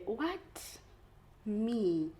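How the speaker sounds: mock outrage. Acts own outraged reaction.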